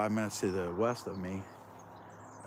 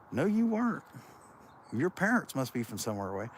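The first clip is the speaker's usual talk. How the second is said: mock classmate doubting; 5 semitones higher than usual. Recalling classmates doubting his birthplace, mock disbelief. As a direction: scoff it like a know-it-all kid. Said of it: "and, uh, like".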